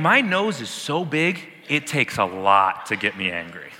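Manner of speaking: slow, lightly voiced God; a hint of a grand divine voice; voicing God. Preacher voicing God to the congregation, mild and slow. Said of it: "God is saying".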